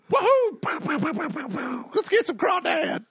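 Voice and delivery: put-on whooping, very high Cajun accent; the speaker's Cajun accent. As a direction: yell it like a hammed-up Cajun party. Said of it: "that was a terrible, terrible Cajun accent".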